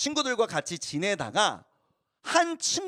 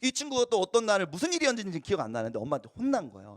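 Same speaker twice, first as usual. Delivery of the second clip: ordinary talk, nothing marked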